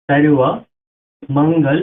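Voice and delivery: সারেবা মঙ্গল said loud and deliberate, the va sound clear; Sanskrit pronunciation. Shown as a demonstration. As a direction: spell out সারেবা মঙ্গল carefully like a teacher. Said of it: "উচ্চারণটা হবে".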